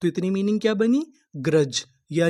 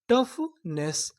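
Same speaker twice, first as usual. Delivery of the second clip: टफनेस drawn out very slowly; slow sounding out; 4 semitones higher, 3 dB quieter, much slower than usual. Shown as a demonstration. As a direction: stretch टफनेस syllable by syllable. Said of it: "तो meaning क्या बनी?".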